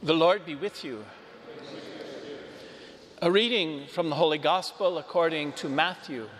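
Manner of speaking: solemn, measured scripture reading; gospel reading. Real, not acted. Priest proclaims the gospel.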